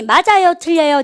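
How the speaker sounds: loud quiz question. Retold or imitated. Teacher quoting own classroom question.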